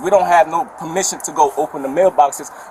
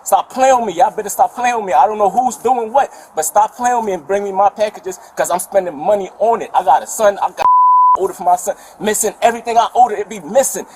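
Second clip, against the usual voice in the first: angry yelling; 3 semitones higher than usual. Real, not acted. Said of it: "you're gonna stop yelling".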